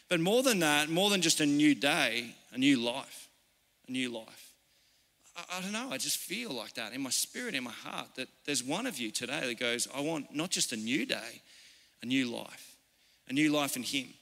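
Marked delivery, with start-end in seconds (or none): 2.5-14.1 soft, intimate preacher's plea; tender, low-volume invitation; hushed appeal. Real, not acted. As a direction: drop right down and speak gently from the heart.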